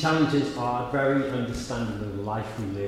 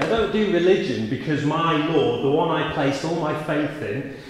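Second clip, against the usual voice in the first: firm and louder, DON'T pressed down hard; confidently; 3 semitones higher, 5 dB louder than usual. Shown as a demonstration. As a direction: declare "I don't do religion" with conviction, stressing "don't". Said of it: "And I say it confidently".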